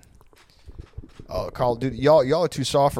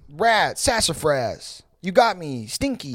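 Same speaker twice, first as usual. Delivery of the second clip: put-on wholesome 1950s kid; 3 semitones higher, slower than usual. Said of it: "That's how Mormons play".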